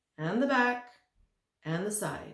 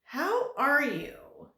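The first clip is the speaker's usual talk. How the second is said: lightly voiced midget; 8 semitones higher, 7 dB louder, much slower than usual. The midget greets the visitors.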